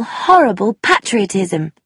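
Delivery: emphatic, disgusted stress on horrible; vehement. Acted. Young woman condemning patriotism to Tommy, vehement. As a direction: spit out horrible patriotism with feeling. Sheila declares her hatred.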